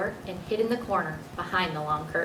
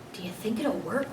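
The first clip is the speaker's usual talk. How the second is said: whispered; 2 semitones higher, 5 dB quieter than usual. Acted. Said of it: "Willie whispered".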